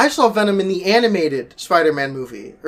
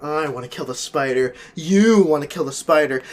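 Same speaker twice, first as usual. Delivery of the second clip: Eddie Brock voice; 2 semitones lower than usual. Retold or imitated. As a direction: say the villain line like an ordinary guy. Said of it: "He's talking like Eddie Brock".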